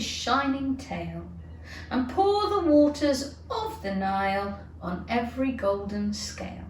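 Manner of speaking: slow singsong recitation; Alice reciting the wrong poem; poem recital. A narrator's reading. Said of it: "the words didn't come out the same".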